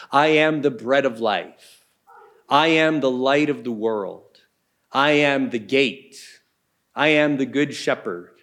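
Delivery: "am" stressed, each line falling to a close; emphatic I am. Shown as a demonstration. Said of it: "start off with a very emphatic".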